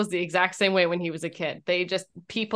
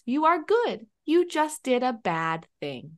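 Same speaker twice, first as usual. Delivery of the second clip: a hint of a calm, kind dad; reassuring father. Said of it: "my husband just looks".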